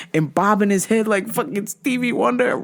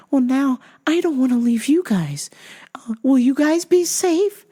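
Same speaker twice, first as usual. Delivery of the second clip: put-on old lady voice; 4 semitones higher than usual. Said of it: "She goes".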